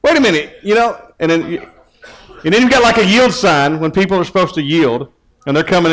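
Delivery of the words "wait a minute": much higher startled "What?"; mock indignant shock; shocked outrage. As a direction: react to being flipped off. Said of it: "you're like".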